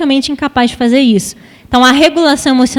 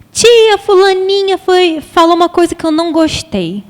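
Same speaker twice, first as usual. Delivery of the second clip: put-on high, slow little girl complaining through tears; upset child voice; 5 semitones higher than usual. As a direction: voice a hurt child telling the teacher, higher and slower. Criança chorando conta à tia. (voz de criança magoada, aguda e lenta)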